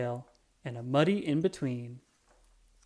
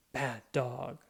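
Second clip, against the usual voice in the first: almost said; 5 dB quieter than usual. A narrator's reading. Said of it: "Henry almost said".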